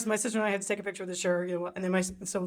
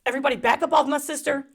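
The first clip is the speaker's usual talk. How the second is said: louder protective big sister warning; big sister mode; 3 semitones higher, 5 dB louder than usual. Retold or imitated. Sister defending the narrator, protective and loud. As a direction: shoo the crowd off her sister. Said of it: "she goes into big sister mode".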